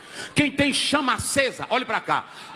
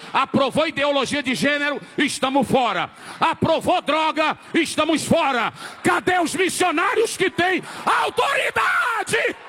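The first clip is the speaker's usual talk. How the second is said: fiery preacher's challenge; full-force preaching; 2 semitones higher than usual. Real, not acted. Preacher rallies crowd.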